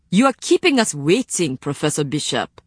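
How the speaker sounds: irritated, clipped complaint; a touch of impatience; testy. Acted. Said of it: "Gerbert said testily".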